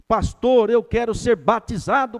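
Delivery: high and loud, full of joy; eager plea. Retold or imitated. Converted man begging the pastor for baptism, loud and high. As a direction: burst out with the request.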